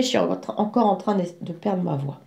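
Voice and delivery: voix cassée, éraillée, qui lâche; voix qui se perd. Real, not acted. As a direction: parler avec une voix qui s'éteint. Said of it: "Voilà, vous voyez". (voix enrouée qui se perd)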